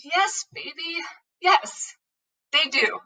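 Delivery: high, gentle mother's voice; tender reassurance. Retold or imitated. Mom answers her confused young son, tenderly reassuring. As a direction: reassure a confused little child.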